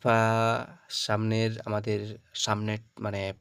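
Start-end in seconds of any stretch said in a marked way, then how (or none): 0.0-0.8 ফা with a light puff of air. Shown as a demonstration. Teacher models for students, ফা with light f. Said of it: "একদম হালকা করে".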